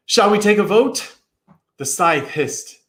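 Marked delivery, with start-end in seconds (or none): 0.1-1.2 panicky question. A narrator's reading. Boy in panic.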